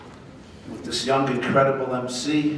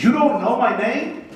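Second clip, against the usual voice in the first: higher, louder, self-important Trump; mock Trump; 9 semitones higher, 5 dB louder than usual. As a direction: puff up and demand recognition. Trump voiced in a joke.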